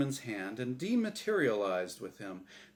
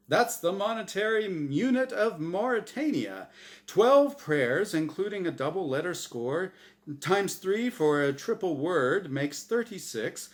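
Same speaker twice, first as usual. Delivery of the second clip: higher, louder know-it-all host; smug game host Azrael; 4 semitones higher, 3 dB louder than usual. Acted. Azrael gloating to Norm over the board, higher host voice. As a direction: rattle off the score with relish.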